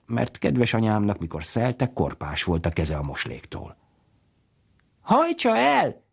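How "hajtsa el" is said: put-on very high, slow shrill cry of a little girl; child shouting. A narrator's reading. Little girl yelling to the carter to drive the cow off, high cries. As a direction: yell it as a small girl calling to the carter. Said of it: "kiáltott Kadarcs Istvánnak".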